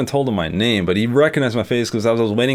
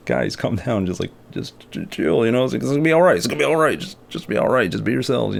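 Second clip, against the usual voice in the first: calm reassurance. Retold or imitated. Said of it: "try to exude a calm".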